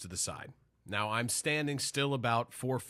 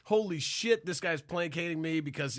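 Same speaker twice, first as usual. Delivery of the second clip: higher-pitched retold indignation; enraged inner voice; 4 semitones higher than usual. Customer fuming in his head at the counterman, indignant. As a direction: replay your own silent outrage, pitched up. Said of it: "in my head, I'm like, enraged".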